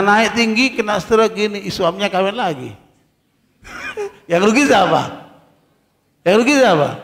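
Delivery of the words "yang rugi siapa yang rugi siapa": laughing question. Real, not acted. Laughs at own joke.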